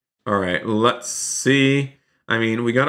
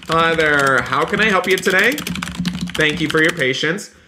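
playful cashier greeting; 4 semitones higher than usual. Pretend. Playing a store cashier.

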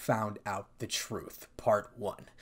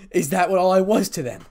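loud, higher, hurt question; bitter protest; 5 semitones higher, 9 dB louder than usual. A narrator's reading. Issei alone in his house, loud and bitter. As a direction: throw it out, indignant and hurt.

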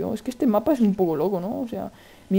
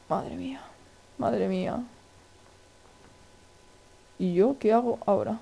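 usual speaking voice

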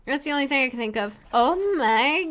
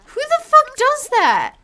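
much higher, slow outraged cry; 12 semitones higher, 6 dB louder, slower than usual. Real, not acted. Gamer outraged at the ruined proposal, high slow outcry. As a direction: stretch out the disbelief.

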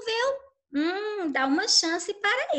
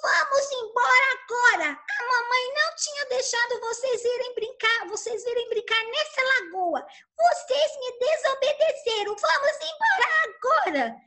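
cross mother scolding her ducklings; angry mother duck; 7 semitones higher than usual. Acted. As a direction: order them home sternly. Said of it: "muito brava e já foi logo dizendo".

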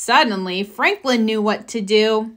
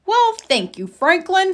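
Mister Owl voice; 8 semitones higher than usual. Acted.

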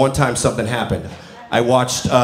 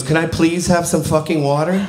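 higher, innocently polite imitation of a child; 4 semitones higher than usual. Nephew asking mom again after "say please", mock-polite child voice. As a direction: ask politely like a little kid. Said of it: "he politely goes".

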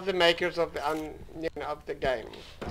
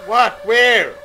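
sudden startled yelps; 9 dB louder than usual. Real, not acted. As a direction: jump at the scare. Jump scare in horror game.

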